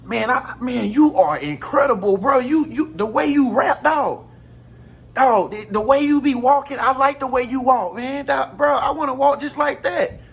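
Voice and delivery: a hint of an eager admirer; imitating admiring friend. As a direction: play the hyped-up fan praising his rap and walk. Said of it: "never acknowledge and say".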